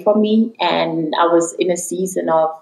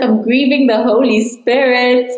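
stunned echo; 6 semitones higher than usual. Retold or imitated. A woman repeating God's words, stunned and amazed. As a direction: say it back as if it can't be true.

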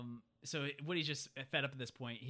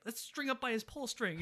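mock menacing Potato Head; 9 semitones higher than usual. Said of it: "Potato Head says".

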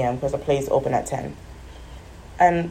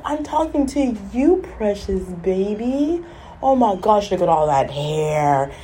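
animated gushing; 3 semitones higher than usual. Retold or imitated. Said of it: "talks in a very animated".

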